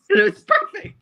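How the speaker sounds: laughing through the words; slow, laughing high agreement. Real, not acted.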